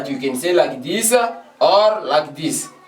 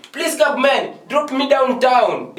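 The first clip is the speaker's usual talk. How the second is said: higher, slow showcase phrase with a laugh; model sentence; 7 semitones higher, slower than usual. Shown as a demonstration. Teacher proudly modelling the better sentence, high and slow. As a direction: lift it up and stretch it as the good example. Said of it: "That is a good sentence".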